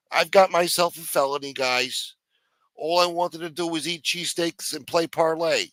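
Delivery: high, pleading whine at the boss; whiny jailed underling. Acted. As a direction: complain like a small-time crook who got pinched. Voicing a jailed guy whining.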